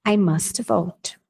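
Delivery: I must vote said very slowly; slow teacher dictation; slow model sentence. Shown as a demonstration. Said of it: "model sentence".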